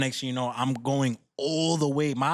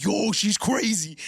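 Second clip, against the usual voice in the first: louder, higher, drawn-out cousin's reaction; retold exclamation; 5 semitones higher, 4 dB louder, slower than usual. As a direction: imitate a cousin exclaiming, stretching it out.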